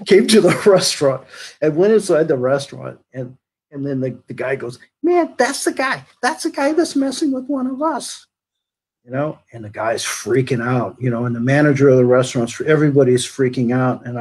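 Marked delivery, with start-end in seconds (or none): 5.0-8.2 single him out to the whole crowd; accusing shout. Retold or imitated. Crowd member points out bully.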